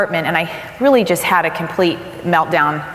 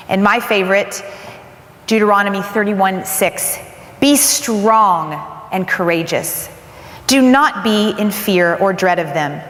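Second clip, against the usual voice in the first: scripture reading. Acted. Reads scripture verses.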